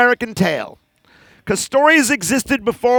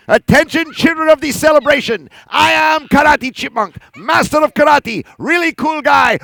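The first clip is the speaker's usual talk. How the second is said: higher, grand announcing voice; puppet proclamation; 5 semitones higher than usual. Acted. Karate Chipmunk addressing the children, grand and higher. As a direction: announce yourself grandly to the crowd.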